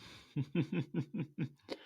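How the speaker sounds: bright, startled little laugh; high laugh. Acted. Captive laughing at her captor's jab, high and startled. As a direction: laugh it off, caught out.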